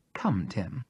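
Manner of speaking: whisper. A narrator's reading. Charles beckons in a whisper.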